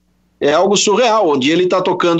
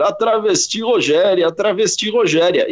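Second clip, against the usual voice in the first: mock reporter voice; 3 semitones higher than usual. Joking at his desk, lightly imitating the Brasília reporter. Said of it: "eu imitando o, o, esse repórter".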